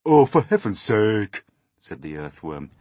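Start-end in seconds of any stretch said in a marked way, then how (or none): 0.0-1.4 loud, fed-up outburst; exasperated. A narrator's reading. Earthworm fed up with centipede's boots, loud exasperation. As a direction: cut in with open exasperation.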